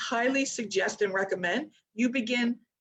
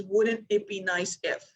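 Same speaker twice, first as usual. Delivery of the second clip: wishful; slower than usual. Shown as a demonstration. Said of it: "Do you hear the difference in my voice".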